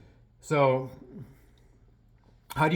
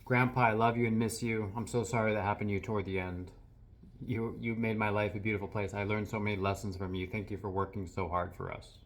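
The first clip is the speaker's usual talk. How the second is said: teary, fading; 3 semitones lower than usual. Real, not acted. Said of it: "feeling a little bit teary".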